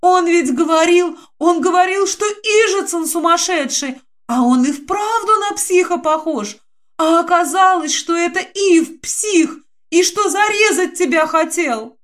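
высоко, на слезах, взахлёб; выше, с рыданием в голосе; плаксивая скороговорка. Acted. Динка плачет и рассказывает. (высоким плачущим голосом)

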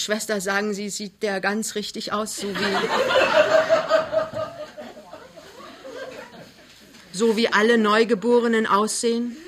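mildly worried, halting question; anxious. A narrator's reading. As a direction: ask nervously, breaking off before finishing. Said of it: "fragte ängstlich". (ängstlich und zögernd)

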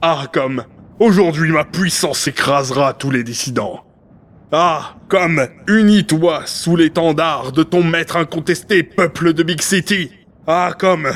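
stately political oration with ringing openings; grandiose proclamation. Acted. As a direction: proclaim it like a ruler. Grandiose speech proclaimed to the city.

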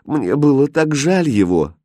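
high, plaintive explanation; tearful pleading. A narrator's reading. Aladdin explaining he saved the puppy, tearful. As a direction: plead pitifully, close to crying. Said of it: "плакал Аладдин".

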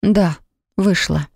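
slow, hesitant, a touch of tremble; a nervous, understated quaver; trembling voice. Acted. Bride admits the marriage to her ex, slow timid quaver. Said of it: "отвечает дрожащим голосом".

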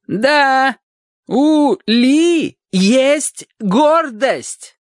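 slow, very loud, high bellow; roaring. Acted. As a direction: roar it slowly at her. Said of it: "проревела она".

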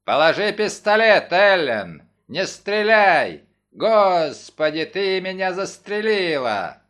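loud, desperate parrot cry, slowing down; parrot shouting. Acted. Parrot repeats a murdered man's cry, loud and slow. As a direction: yell as if facing a gun. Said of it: "он крикнул".

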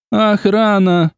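high, loud, drawn-out shriek; shrill shout. A narrator's reading. Agnes panicking at the invisible intruder, shrieking. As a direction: scream for the guards. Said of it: "громко и визгливо закричала Агнес".

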